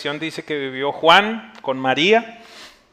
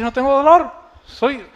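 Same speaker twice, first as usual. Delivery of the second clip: retold cry, rising higher and louder; excited cry; 10 semitones higher, 8 dB louder, slower than usual. Healed woman tells the pastor her pain is gone, crying out. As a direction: act out her building excitement to a shout. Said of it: "Y empieza a gritar".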